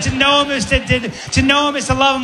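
high-pitched, stumbling repeat; baffled woman quoting. Acted. Woman repeating Angus's loaded line, high baffled voice. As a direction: throw the line back, high and incredulous.

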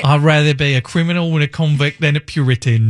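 exaggerated imitation of a co-host's Australian-British accent; mock Australian accent. Host mimics the co-host's criminal remark, mock Australian accent. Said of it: "Do I talk like that?".

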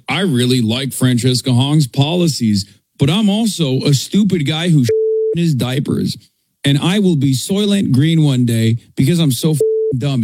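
a hint of a dim, whiny voter; lightly voiced dumb pundit, mocking. Host mocking a voter, lightly voiced mock dim voice. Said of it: "a guy who's like".

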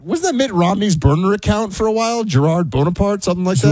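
high, playful teasing question. Real, not acted. Buck teasing Clay about his French class name, playful high voice. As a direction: poke fun at the French name. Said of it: "That's the best".

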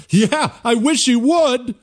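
high, slow sneering mock voice; mocking the clip. Mocking a Democrat's violent joke, high and slow. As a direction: drawl it out like you're parroting them. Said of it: "That's how they talk".

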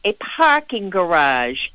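local Boston accent slipping out on "parking garage"; unguarded Boston pronunciation of "parking garage". Real, not acted. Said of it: "that was my Boston accent coming out".

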